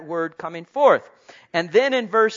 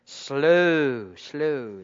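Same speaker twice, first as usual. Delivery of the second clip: gentle caution; 3 semitones lower, 3 dB louder than usual. Retold or imitated. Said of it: "as Mom used to tell me".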